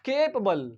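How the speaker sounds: Capable said "KAY-puh-bul"; careful pronunciation. Shown as a demonstration. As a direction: stress the first syllable of Capable. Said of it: "How do we pronounce this word?".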